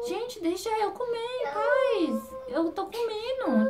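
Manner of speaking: slow, high, put-upon whine; whiny plea. Pretend. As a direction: beg them to let her eat, drawn out. Pleading to be left eating.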